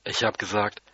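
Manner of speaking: ordinary delivery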